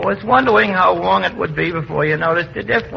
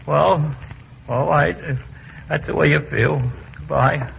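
subdued, wounded farewell with pauses; huffy; 4 semitones lower, 4 dB quieter than usual. Acted. Llewellyn taking leave after being fired, huffy and subdued. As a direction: trail away softly, hurt and offended. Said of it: "What's he getting so huffy about?".

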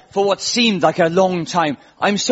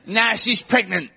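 higher, slower Essex-lad voice; Essex accent; 5 semitones higher, 3 dB quieter, slower than usual. Acted. Essex guy on TV owning up, Essex accent. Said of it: "the accent. I've got to get the accent".

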